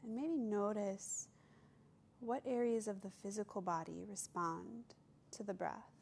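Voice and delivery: calm meditation voice with long pauses; guided meditation. Acted. Yoga teacher leading listeners to observe their breath, guided meditation. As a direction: guide them gently, leaving space between phrases.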